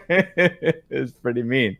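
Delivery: laughing through the words. Real, not acted. Talking to a friend while laughing at the joke, laughing. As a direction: giggle it out, slowly.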